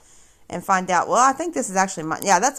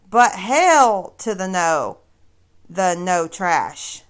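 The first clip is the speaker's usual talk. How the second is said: sassy refusal; 4 dB louder, slower than usual. Real, not acted. Flat refusal of her boast.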